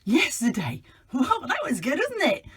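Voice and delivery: high, cheery character voice; perky kids' show puppet; bright puppet voice. Acted. Puppet character Hat Woman.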